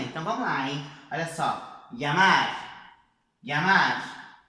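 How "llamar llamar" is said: Llamar said the Spanish way, ll like a light y; Spain pronunciation. Shown as a demonstration. Teacher models Llamar for the class, Spain-style ll. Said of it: "Vamos começar pela pronúncia da Espanha?".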